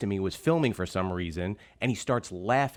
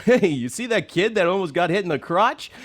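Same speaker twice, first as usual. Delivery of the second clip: gossiping parents; 9 semitones higher, 7 dB louder than usual. Retold or imitated. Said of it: "parents started coming over ... going".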